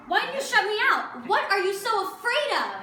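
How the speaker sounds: upset pleading. Acted. Acted quarrel between sisters.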